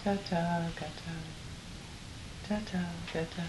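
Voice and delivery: Ta-ta. Gata. with exaggerated lip movement; over enunciating. Shown as a demonstration. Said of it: "Watch my lips".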